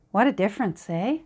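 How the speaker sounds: a light Canadian lilt on the eh; Canadian accent. Real, not acted. Crafter admiring her page, in a hint of Canadian accent. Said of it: "I really sounded Canadian there".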